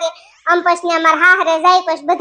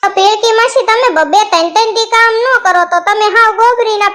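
mocking niece; 2 semitones higher than usual. Girl mocks aunt Pilki, laughing.

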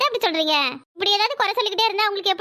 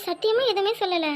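tearful denial; 3 dB quieter than usual. Acted. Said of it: "அதுக்குன்னு அழுகுற".

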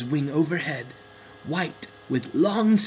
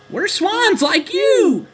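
warm welcome; 8 dB louder, slower than usual. Acted. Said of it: "they said warmly".

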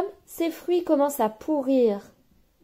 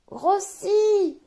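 grossit said much higher; rising growth; 10 semitones higher than usual. Acted. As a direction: lift grossit way up, bigger still. Bubble swelling further.

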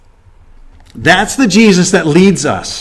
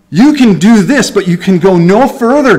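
voicing God; 3 semitones higher, 3 dB louder than usual. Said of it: "God tells Satan".

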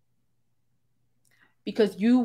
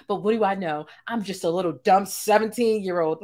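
sarcastic. Retold or imitated. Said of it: "No, that's sarcasm".

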